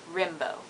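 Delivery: Rimbaud said softly as "rim-bo"; an i in Rimbaud, not an A; French pronunciation. Shown as a demonstration. Correcting the Rambo sound, Rimbaud as "rim-bo". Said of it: "but it's not an A".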